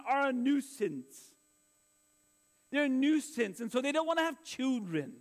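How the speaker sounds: emphatic, projected sermon voice; preaching. Acted. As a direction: preach it to the congregation in weighty phrases. Preaches to congregation.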